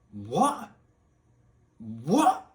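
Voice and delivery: loud, sharply rising disbelief; incredulous. Real, not acted. Gamer reacting to nonsense dialogue, incredulous.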